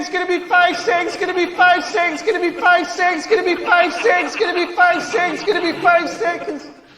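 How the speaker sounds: climbing steadily in pitch, then stuck high and repetitive; rising countdown. Acted. Comic acting out a time estimate, rising to a high, looping chant.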